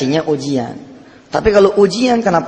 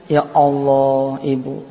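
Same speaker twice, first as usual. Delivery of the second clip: sobbing cry; 4 semitones lower, 3 dB quieter, much slower than usual. Retold or imitated. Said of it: "nangis sesenggukan dia".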